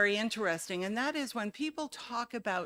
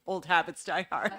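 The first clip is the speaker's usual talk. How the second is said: laughing; 4 dB louder than usual. Real, not acted. Laughs off own slip.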